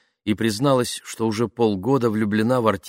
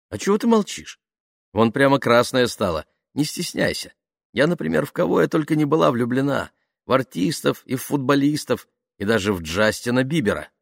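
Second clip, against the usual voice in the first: put-on higher, teasing young woman's chatter; lightly voiced chatty friend; 6 semitones higher than usual. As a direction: prod a shy friend, pitched up. Voices Nadia teasing her shy friend.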